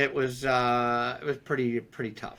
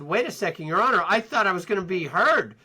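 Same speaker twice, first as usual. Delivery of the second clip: getting mad; 5 semitones higher, 4 dB louder than usual. Retold or imitated. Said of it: "because now I'm getting mad".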